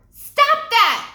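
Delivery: high, loud angry shout; sharp furious shout. Acted. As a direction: yell at the monkey to stop. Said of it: "Annie shouted".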